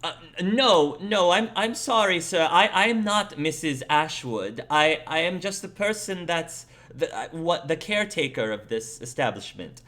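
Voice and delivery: put-on flustered old lady, pitched high at first; apologetic, stammering elderly caretaker; old woman. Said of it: "The old woman says".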